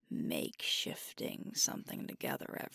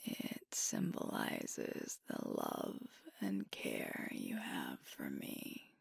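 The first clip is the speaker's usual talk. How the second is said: tender thanks. Acted. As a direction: thank a partner sincerely, almost whispering. Heartfelt thanks to partner.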